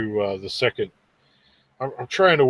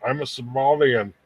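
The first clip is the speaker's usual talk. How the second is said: put-on misheard Austrian accent. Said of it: "it sounds like he says".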